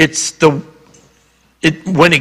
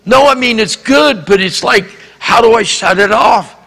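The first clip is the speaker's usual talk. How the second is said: put-on frantic boy; 7 semitones higher, 3 dB louder than usual. Boy pleading to stop words.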